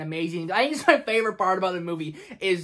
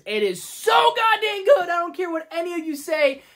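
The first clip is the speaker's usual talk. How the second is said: hammed-up Bane shout; 9 semitones higher, 4 dB louder than usual. Shown as a demonstration. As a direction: bellow it like Bane. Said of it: "I'm gonna do it probably many more times".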